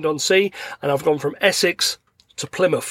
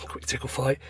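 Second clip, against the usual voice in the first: much softer, grudging aside; resigned dad, retold; 3 semitones lower, 10 dB quieter than usual. Dad agrees to son's bedtime game, soft resigned retelling. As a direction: give in under your breath.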